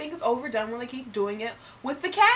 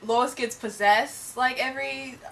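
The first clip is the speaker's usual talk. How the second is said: fake British accent. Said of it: "we're doing our accents".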